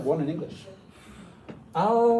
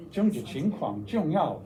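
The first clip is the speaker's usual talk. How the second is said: toned Mandarin reading; Chinese pronunciation. Shown as a demonstration. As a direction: say it with Chinese tones. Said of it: "Nice Chinese feeling to it".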